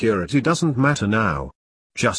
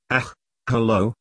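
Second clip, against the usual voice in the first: put-on Yorkshire accent. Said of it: "Trying out a Yorkshire accent".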